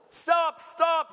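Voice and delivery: high shouted squeal; a cat's desperate high-pitched squeal. Acted. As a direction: squeal it like a panicked cat. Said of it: "squealed the cat".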